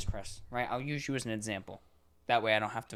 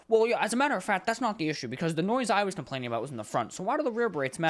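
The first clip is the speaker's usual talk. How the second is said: higher and louder, huffy know-it-all; mock indignant caller; 5 semitones higher, 4 dB louder, faster than usual. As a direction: ham up the caller who won't answer. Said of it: "And they're all mad".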